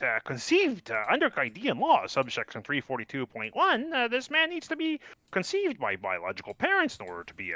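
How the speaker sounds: halting mock-legal argument leaping into high pitch; hammed-up amateur lawyer with squeaky peaks; flustered defendant objecting. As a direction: argue to the judge, stumbling, voice jumping up. Plays defendant objecting in court.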